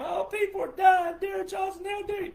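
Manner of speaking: high, loud, mocking shout of complainers; hammed-up shrill panic, mocking them; mocking whine. Mocking people who complain out there, high panicky shout.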